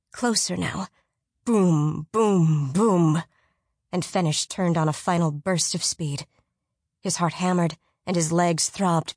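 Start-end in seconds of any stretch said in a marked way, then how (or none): 1.4-3.2 booming. A narrator's reading. Giant footsteps sound out.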